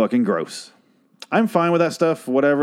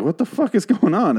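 laughing disbelief; 10 semitones higher than usual. Retold or imitated. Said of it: "And I was like".

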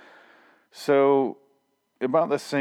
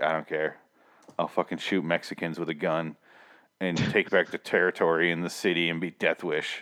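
low, mildly mocking tough-guy voice; careless action star; 4 semitones lower, 4 dB quieter than usual. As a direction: lightly imitate a jaded action hero, low. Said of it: "he just was just like".

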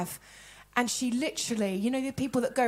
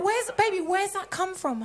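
coaxing husband, slightly raised pitch; imitated gentle query; 4 semitones higher than usual. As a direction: ask a partner kindly. Husband's gentler version of the question.

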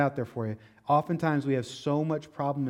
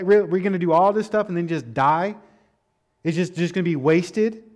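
complaining; 3 semitones higher, 6 dB louder than usual. Retold or imitated. Preacher voicing Israelites complaining to Moses, louder whine. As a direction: whine it like scared grumblers. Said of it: "They start to complain".

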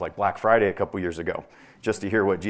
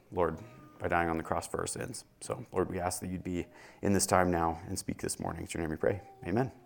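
prayer. Acted. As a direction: pray humbly before the Lord. Pastor leads opening prayer.

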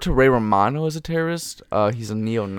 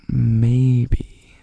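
whispering; 2 semitones lower, 4 dB louder than usual. Real, not acted. Whispered doubt.

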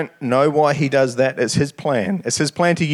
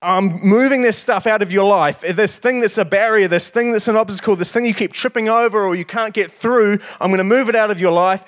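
a bold, raised messenger voice; angel speaking; 6 semitones higher than usual. Retold or imitated. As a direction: proclaim it as the angel sitting on the stone. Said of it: "He's like".

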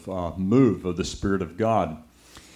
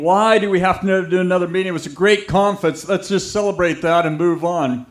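mock complaining, higher and louder, fast; whiny complaint; 7 semitones higher, 5 dB louder, faster than usual. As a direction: rattle off the staff's gripes in a higher voice. Staff complaining in meeting.

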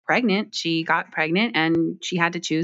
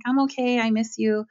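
raised, lifted voice; raised-pitch "I'm okay"; wistful reply; 6 semitones higher than usual. Retold or imitated. Her reply to the principal.

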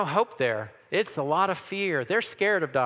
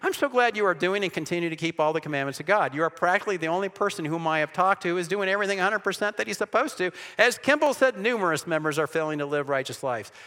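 sarcastic; 2 semitones higher, faster than usual. Retold or imitated. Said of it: "I was a little sarcastic".

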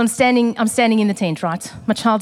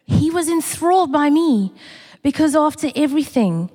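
exultant; 4 semitones higher than usual. Acted. Preacher repeats with emphasis.

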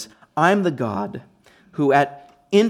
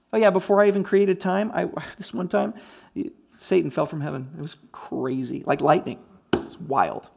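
Jesus, offhand; 4 dB quieter than usual. Acted. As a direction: reminisce lightly, as round a campfire. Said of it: "He's just speaking like that".

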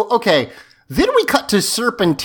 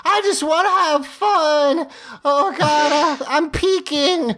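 high, giddy druggy whine; wild unhinged ranting; 10 semitones higher than usual. Retold or imitated. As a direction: play him blissed out and high. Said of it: "he's wandering around going like".

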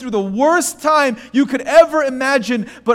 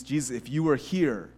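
quiet grieving plea; 10 semitones lower, 10 dB quieter, faster than usual. Retold or imitated. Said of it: "Mary also asks Jesus".

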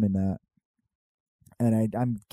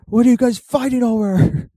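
higher and louder, hammed-up dragon; mock dragon voice; 9 semitones higher, 7 dB louder than usual. Drogon asks the fighting humans, higher and louder mock voice. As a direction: play the dragon scolding the humans. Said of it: "He's like".

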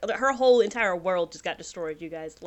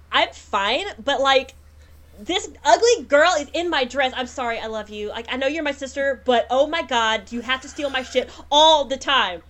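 petulant, whiny complaint; bratty complaining wife; 5 semitones higher than usual. Acted. Tobit complaining to her husband about her sister, petulant. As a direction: sulk about the sister stealing her dress. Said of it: "And so it's like".

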